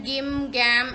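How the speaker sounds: गिम and गैम said with a hard g, the wrong way; गिम, गैम with the g of goat. Shown as a demonstration. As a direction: demo गिम, गैम as the mistake to avoid. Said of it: "ऐसा नहीं बोलेंगे हम".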